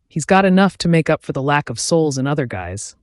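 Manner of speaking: "He's" punched, the word he stressed. A narrator's reading. Stranger to the narrator, stressing "He's". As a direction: lean hard on "He's". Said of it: "emphasizing the word he".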